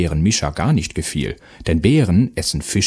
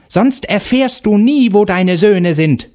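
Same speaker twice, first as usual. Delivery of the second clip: high, loud begging hag; a beaten witch cries for her life; defeated Baba Yaga begs the mother; pleading witch scream; 12 semitones higher, 5 dB louder than usual. A narrator's reading. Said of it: "schrie die Baba Yaga".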